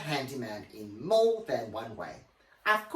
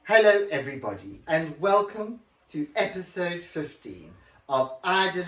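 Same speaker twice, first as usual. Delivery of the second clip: Margaret Thatcher voice. Shown as a demonstration. Host redoing her podcast intro as Margaret Thatcher. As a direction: give it a grand prime-ministerial welcome. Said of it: "my Margaret Thatcher voice".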